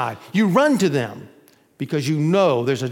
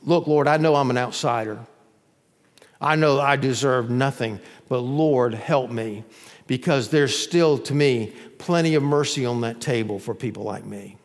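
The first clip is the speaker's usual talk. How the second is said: lower, understated plea, softening at the end; humble plea; 4 semitones lower than usual. Acted. Outsider asking the Lord for mercy, humble plea. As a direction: plead humbly without pushing. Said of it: "A total humility before the Lord".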